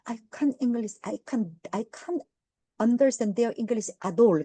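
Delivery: slow, drawn-out British accent imitating the flustered waiter; slow hammed-up British English; British waiter who can't follow, slow British accent; mock British accent. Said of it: "막 이래".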